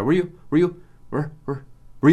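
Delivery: "Were you" clipped down to a weak "ju"; reduced demo. Shown as a demonstration. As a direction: drop the vowel in "Were", swallow it. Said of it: "Vai ficar". ("Were" bem reduzido, quase engolido)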